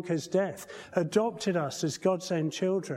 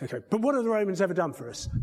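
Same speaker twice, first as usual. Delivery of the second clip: a lightly voiced exasperated John Cleese, faster; 3 semitones higher, much faster than usual. Preacher retelling the sketch, mock exasperated Cleese. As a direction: rattle it off as an impatient Cleese. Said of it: "we have John Cleese going".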